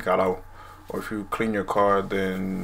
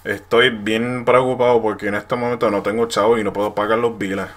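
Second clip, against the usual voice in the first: Puerto Rican accent; 7 dB louder than usual. Shown as a demonstration. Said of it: "an example would be like".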